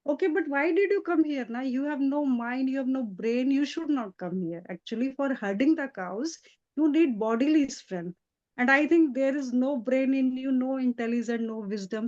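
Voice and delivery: teasing scold. Retold or imitated. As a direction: tease him for having no brain. Tulsi teasing Krishna in story.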